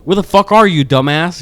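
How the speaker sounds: loud mock yell at a teammate; mock angry gamer yell. Imitating a boyfriend raging at her mid-game, loud mock yell. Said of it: "he's never telling me, like".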